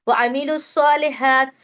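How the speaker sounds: वामिलुस्सॉलिहात with waw-alif and the lam unsaid, स doubled; वामिलुस्सॉलिहात as "wa-amilus-salihat"; skipping the middle letters. Shown as a demonstration. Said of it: "वाव अलीफ और अलीफ लाम ... नहीं पढ़ रहे". (बीच के हरूफ छोड़कर पढ़ना)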